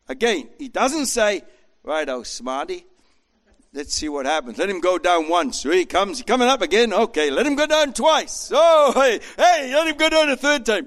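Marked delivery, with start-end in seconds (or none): 1.8-8.5 mock sarcastic taunting. Voices a cruel, mocking Jesus. 8.5-10.8 much higher, loud gloating shout; mock gleeful shout. Cruel mock Jesus peaks.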